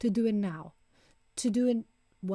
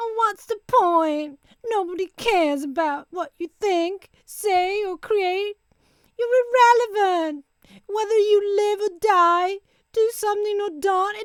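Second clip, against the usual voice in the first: put-on loud, high, whining spoiled child voice; 9 semitones higher, 6 dB louder than usual. Giving an example of an awful inner critic voice: whining child voice. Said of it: "So I'll give you an example of my awful inner critic voice. So, whining child".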